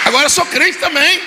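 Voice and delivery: voz alta e bem aguda, encenada; proclamação exaltada. Retold or imitated. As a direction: proclame a conversão em tom agudo e empolgado. (proclamação exaltada e aguda)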